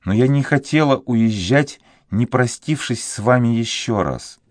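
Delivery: a lightly voiced grieving girl; young woman saying goodbye; sad young girl. A narrator's reading.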